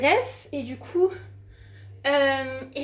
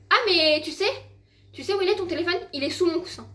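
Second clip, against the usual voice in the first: brother's teasing voice; 5 semitones higher, 4 dB louder than usual. Retold or imitated. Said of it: "il me dit".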